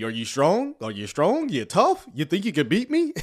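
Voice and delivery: hammed-up copy of a preacher taunting a demon; mock taunting. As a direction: tease like a playground bully. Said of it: "taunting the demon".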